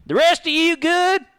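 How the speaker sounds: loud call. Acted. Calling to the party.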